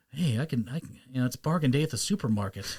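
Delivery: soft, level, disinterested delivery; underplay it, quietly deadpan; monotone Saitama. Acted. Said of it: "just monotone".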